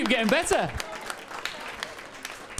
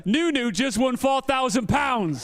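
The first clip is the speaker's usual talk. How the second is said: announcing the win; 3 semitones higher, slower than usual. Real, not acted. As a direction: call it out slowly to the whole room. Interviewer announcing win to crowd.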